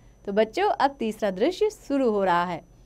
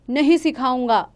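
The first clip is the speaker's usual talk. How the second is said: louder refusal yell; shouting; 4 semitones higher, 6 dB louder than usual. Acted. Father yells his refusal at wife, shouting. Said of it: "चिल्लाता है।".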